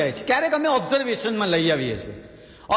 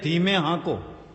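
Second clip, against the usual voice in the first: slow, low, deliberate sign read; slowly drawn out caution; 7 semitones lower, slower than usual. Shown as a demonstration. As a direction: read it out like a warning board.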